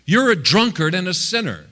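high-pitched mock accusation; accusing voices. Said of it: "the voices that were coming at him".

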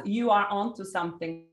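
usual speaking voice

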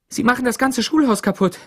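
high, loud, urgent alarm; breathless cry. A narrator's reading. Teacher bursting into the sheriff's office, crying out breathlessly. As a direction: call out urgently for help. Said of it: "rief sie atemlos".

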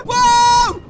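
loud startled whoa into laughter; shocked loud whoa; startled shout. Real, not acted. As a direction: yelp then crack up.

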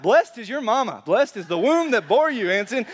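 playful holler of blessing; mock scream out. Shown as a demonstration. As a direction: shout it from the pews like an excited listener. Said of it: "scream out".

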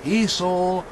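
suspenseful storyteller stretching key words; story narration. A narrator's reading. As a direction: draw the listeners slowly into the mystery. Tells a story to audience.

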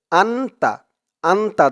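আন্তা said with a nasal আং start; nasal hum on আন্তা. Shown as a demonstration. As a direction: ring the আং in আন্তা. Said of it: "এখানে আমাদের উচ্চারণ করতে হবে আং".

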